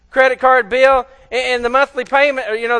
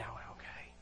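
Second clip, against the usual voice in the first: low, very soft grudging okay; insincere apology; 8 semitones lower, 11 dB quieter, faster than usual. Acted. Someone apologizes because it looks good, half-heartedly. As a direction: mumble it for appearances, not meaning it. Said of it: "it doesn't look good not to say".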